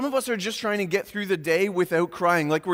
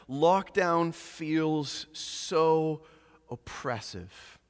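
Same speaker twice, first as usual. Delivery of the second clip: weary quote; 2 semitones lower, 4 dB quieter, slower than usual. Retold or imitated. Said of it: "this is what he said to me".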